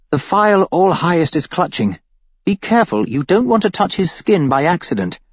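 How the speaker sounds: a captive steering the thug, then warning him; Iris, urgent. Acted. Female character voice in narration.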